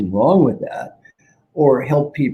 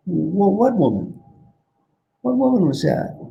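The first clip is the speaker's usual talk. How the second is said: sleepy puzzled monk; 7 semitones higher than usual. Acted. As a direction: act half-awake and baffled. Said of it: "The sleepy monk says".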